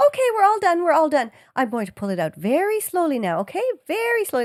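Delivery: lightly voiced, reassuring clinician; retold ultrasound technician. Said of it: "And she goes".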